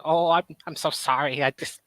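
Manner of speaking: kobold voice. Retold or imitated. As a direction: whine like a pitiful little kobold. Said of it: "I don't know if I can still do the voice".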